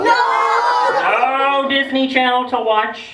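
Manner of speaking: slow, drawn-out teasing build; slow mock-solemn countdown; dramatic slow list. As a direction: stretch each item out to get a No from the kids. Teasing kids about Antarctica.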